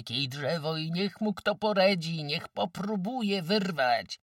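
high, loud, eager boast; exuberant boasting. A narrator's reading. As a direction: crow that no work can beat you. Villagers joyfully boast they will cope.

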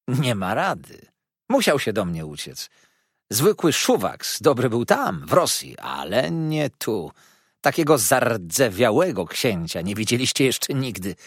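lightly voiced scornful gossip; a hint of sly mockery; mocking dwarf lady. Karlica drwi z księcia. (lekko drwiąco)

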